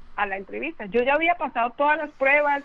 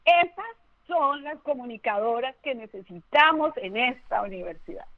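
stern professor's verdict. Retold or imitated. Professor pointing at the scared girl, stern proclamation. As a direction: deliver it like a strict professor's ruling. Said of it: "me señaló con el dedo y me dijo".

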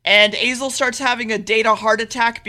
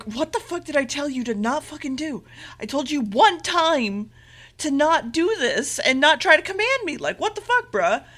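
higher-pitched exasperated telling-off, retold; mock indignation; 4 semitones higher than usual. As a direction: act out an exasperated scolding. Retold Azel scolds the master.

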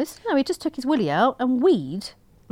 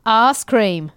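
lower-pitched posh English "Arse cream"; posh English accent; 3 semitones lower than usual. Shown as a demonstration. Host testing a listener's accent hack, posh English accent. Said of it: "in a posh English accent".

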